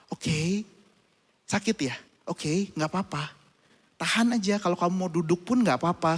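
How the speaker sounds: put-on calm a scared child down; soothing parent. Parents comfort their stiff-necked son, soft and gentle.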